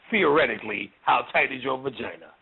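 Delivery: low-pitched, feigned hypothetical; mock-casual asking. Spirit retrying with a follower, mock-casual and low. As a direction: drop it low, as if only theoretical.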